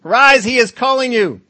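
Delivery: high sugary crowd voice; fake friendly. Fickle crowd now sweet-talks the beggar, high and loud. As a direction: oversweet sudden friendliness. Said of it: "they changed their mind".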